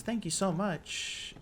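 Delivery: high, slow grateful thanks; NPC voice. Retold or imitated. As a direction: voice her thanks up high, slowly. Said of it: "So she says".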